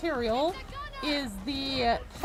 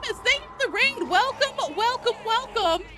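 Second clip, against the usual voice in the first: put-on high, louder Valley Girl thank-yous; 11 semitones higher, 4 dB louder than usual. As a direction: gush the welcomes like a Valley Girl. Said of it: "it's the Valley Girl voice".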